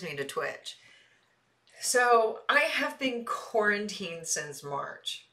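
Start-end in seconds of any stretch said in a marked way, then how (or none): 1.8-5.3 each word of "quarantined since March" laid down slowly; slowed for weight; slow, emphatic. Shown as a demonstration. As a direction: spell out "I have been quarantined since March" slowly, one word at a time. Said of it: "This is part of my reason".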